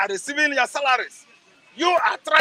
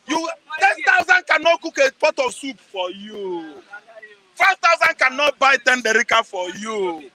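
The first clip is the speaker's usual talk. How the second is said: emphatic rant. Real, not acted. Ranting about vote-buying money.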